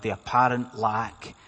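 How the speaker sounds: "apparent" repeated with measured emphasis; low-pitched, deliberate weight on "apparent"; stress on apparent. Real, not acted. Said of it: "and I stress that word".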